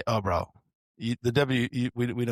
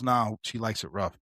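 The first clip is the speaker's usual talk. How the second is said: mock calm suspect. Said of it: "He was super calm".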